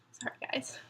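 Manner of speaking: whispered through tears; a real whispered apology through tears; tearful whisper. Real, not acted. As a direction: barely get it out while crying. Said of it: "I'm crying".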